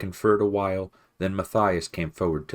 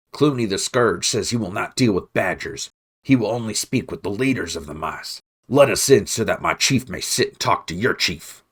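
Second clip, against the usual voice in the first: loud herald call; 4 semitones higher, 6 dB louder than usual. Acted. Rat herald calling to walls.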